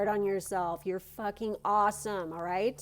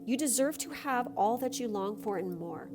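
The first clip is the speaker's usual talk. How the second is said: card reading; 3 semitones higher than usual. Acted. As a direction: read it like a gentle blessing. Reads a card's message.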